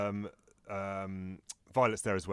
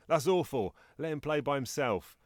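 mock disgust; 6 semitones higher than usual. Violet quote.

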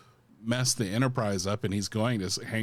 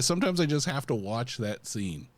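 usual speaking voice

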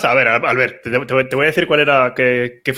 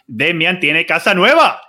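grand announcer voice; ringmaster; 3 semitones higher than usual. Acted. Mock announcement of big news.

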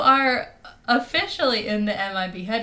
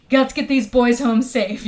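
mock action hero; 3 semitones higher, 10 dB louder than usual. Jokey movie-trailer line.

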